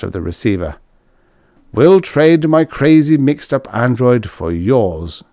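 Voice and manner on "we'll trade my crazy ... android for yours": excited. A narrator's reading. Raymond's eager new plan.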